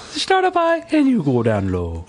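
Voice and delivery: giggling through the words; laughing. Real, not acted. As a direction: laugh while you say it. Laughing while repeating the instruction.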